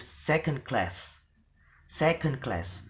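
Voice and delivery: "second class" with CLASS carrying main stress. Shown as a demonstration. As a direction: lighter "second", stronger CLASS. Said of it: "stress is in the second element".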